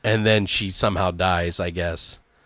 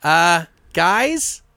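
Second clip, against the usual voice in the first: sheepish question; 11 semitones higher than usual. Retold or imitated. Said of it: "he's like".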